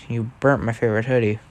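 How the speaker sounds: quiet hurt little voice; sad, soft complaint. Acted. Brother whose hoodie got burnt, quietly sad. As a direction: say it softly, crushed. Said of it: "he looks very sad".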